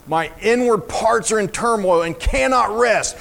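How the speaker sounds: high, intense declaimed lament; dramatic scripture reading. Acted. Preacher quoting a Bible writer in turmoil, intense lament. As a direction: declaim the turmoil with rising force.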